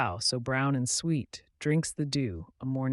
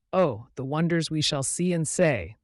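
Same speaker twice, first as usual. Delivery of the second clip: higher, louder eager cow; enthusiastic cow; 4 semitones higher, 6 dB louder than usual. Acted. Cow answering the sheep, enthusiastic. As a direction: bubble with eagerness. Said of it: "the cow said enthusiastically".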